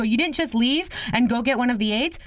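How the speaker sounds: high incredulous question; retold disbelief. Granddaughter questioning grandmother's choice, incredulous. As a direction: question her in mock amazement.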